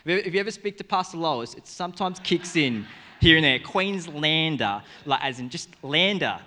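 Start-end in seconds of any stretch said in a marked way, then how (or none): 3.6-4.8 drawn-out, louder Queenslander accent; playful demo of a Queenslander accent. Shown as a demonstration. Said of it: "like a Queenslander accent". 5.8-6.4 "lander" in a demonstrated Queensland accent; mock Queenslander accent. Shown as a demonstration. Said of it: "like a Queenslander accent".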